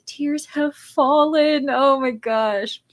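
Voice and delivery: slow, hushed and choked up; emotional whisper. Acted. Reading a viewer's tearful comment, slow hushed whisper. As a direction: breathe it out, moved to tears.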